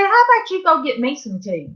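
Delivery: lightly acted sisterly sass; sassy comeback. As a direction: turn the order right back on him. Sister talks back to him.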